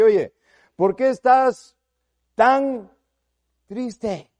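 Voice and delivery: God asking Cain. Acted. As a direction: ask him gently but pointedly why he is sad.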